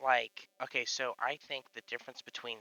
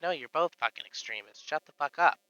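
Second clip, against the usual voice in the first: mock angry retort; 4 semitones higher, 4 dB louder than usual. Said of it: "It's like".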